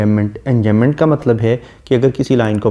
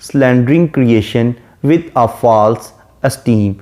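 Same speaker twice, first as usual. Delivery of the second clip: slow, measured recitation of the verse; reading the poem; much slower than usual. Shown as a demonstration. Teacher reciting the sonnet line slowly to students. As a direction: read the line out slowly to the class.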